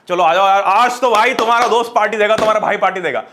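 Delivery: mock-hype the friends like a host; excited party invite.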